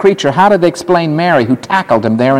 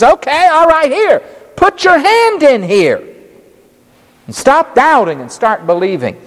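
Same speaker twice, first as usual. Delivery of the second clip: gently voiced Jesus, higher, slowed; higher inviting voice offering his hands; Jesus speaking; 9 semitones higher than usual. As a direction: coax Thomas to touch the wounds. Preacher voicing Jesus again.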